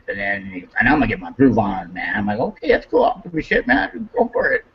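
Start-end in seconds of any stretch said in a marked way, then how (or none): 2.4-4.6 high, sarcastic brush-off rising to the end; mock-indifferent retort; sarcastic dismissal. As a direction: wave him off mockingly. Sarcastic reply to brother.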